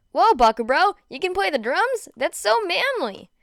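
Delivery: high, loud impressed gush; excited high bro voice; amazed enthusiasm. Acted. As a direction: gush with admiration. Kirishima amazed at drums.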